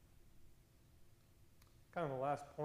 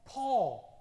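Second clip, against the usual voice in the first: Paul again, higher and much louder; loud call; 5 semitones higher, 10 dB louder than usual. Real, not acted. Preacher to congregation, loudly repeating the name. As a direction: ring the name out across the room.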